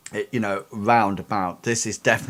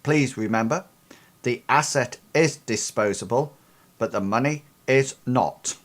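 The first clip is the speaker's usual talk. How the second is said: lightly robotic voice; 3 semitones higher than usual. Acted. Mysterious contact speaks to the crew over the car's loudspeaker, lightly robotic. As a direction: read it like a calm computer, only lightly. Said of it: "this rather robotic, um, voice".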